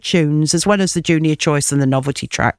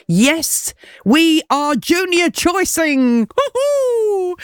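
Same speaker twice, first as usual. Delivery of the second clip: excited; 8 semitones higher, much slower than usual. Real, not acted. Excited radio announcement.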